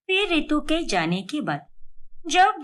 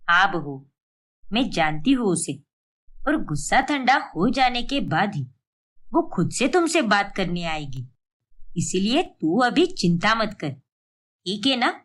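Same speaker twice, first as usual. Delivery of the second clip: lower-pitched caring mother-in-law; 6 semitones lower than usual. Acted. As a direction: ask like a concerned elderly saas, voice dropped low. Mother-in-law reassures Tanvi. (चिंतित सास की नीची आवाज़)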